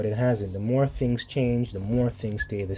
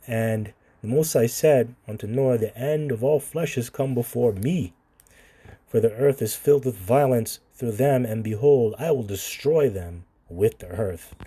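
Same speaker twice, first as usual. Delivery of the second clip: scripture reading. Acted. Reads scripture aloud.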